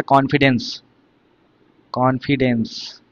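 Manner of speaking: "कॉन्फिडेंस" said twice, second slow and soft; model pronunciation. Shown as a demonstration. Teacher modelling a word for students, slow repeat. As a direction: repeat "कॉन्फिडेंस" slowly for the class. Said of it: "आपने कभी सुना होगा".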